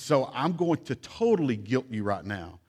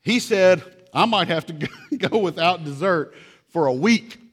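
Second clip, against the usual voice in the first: put-on higher, louder whining kid; mock outraged child; 5 semitones higher, 7 dB louder than usual. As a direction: complain about no dessert like a child. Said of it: "a new entry".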